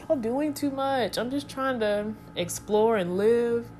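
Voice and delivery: high, exasperated complaint. Retold or imitated. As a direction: whine it like you're fed up. Exasperated quote at new creatures.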